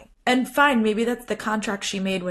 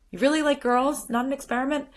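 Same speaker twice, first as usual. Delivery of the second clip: higher-pitched, tentative questioning; trying to understand; 6 semitones higher, faster than usual. Retold or imitated. Father checking what his daughter told him, trying to understand. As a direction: imitate a gentle attempt to understand. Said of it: "he's trying in that moment to understand".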